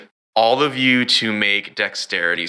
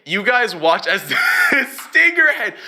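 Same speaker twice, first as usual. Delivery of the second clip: excited; 10 semitones higher than usual. Acted. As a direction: sell the big hit to the players. GM hypes a monster attack.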